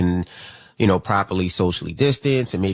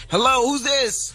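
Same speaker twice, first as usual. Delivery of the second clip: sing-song phone greeting; slower than usual. Real, not acted. Host answering a caller on air.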